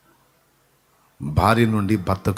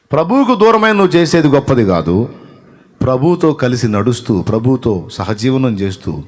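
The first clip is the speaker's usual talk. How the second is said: full-force preaching; 2 semitones higher, 7 dB louder than usual. Acted. Preacher exhorting believers to walk with the Lord, loud. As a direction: exhort the flock with rising passion.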